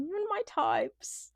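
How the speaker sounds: imitating Kaz's Australian accent. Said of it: "I love the way that Kaz speaks".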